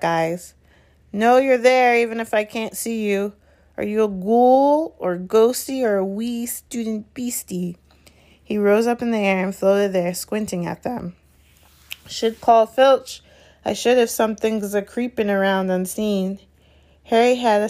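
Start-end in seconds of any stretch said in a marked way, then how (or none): 1.1-7.8 high, teasing poltergeist; mischievous sprite hunting intruders; taunting Peeves. Acted. 12.1-16.4 threatening Peeves. Acted. Peeves threatening to tell on them.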